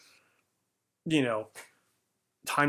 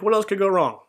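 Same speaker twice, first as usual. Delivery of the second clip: higher and louder exasperated outburst; man cursing at God after his AC breaks, exasperated and louder; retold cursing; 6 semitones higher, 6 dB louder than usual. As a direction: throw the question at the sky in frustration. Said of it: "is cursing".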